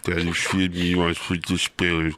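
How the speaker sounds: lightly theatrical, poetic delivery; dramatic recital voice. Pretend. Guest recites lines in a mock dramatic voice. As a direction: recite it like a brooding poet. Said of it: "that's a cool voice".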